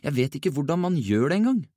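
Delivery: high, helpless lament; despairing mumble. A narrator's reading. Jonathan admits to friends he cannot fight, in helpless despair. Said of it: "mumlet han fortvilt".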